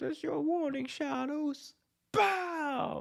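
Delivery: very high, whiny, slow, stretched promo-style delivery. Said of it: "He's kinda whiny".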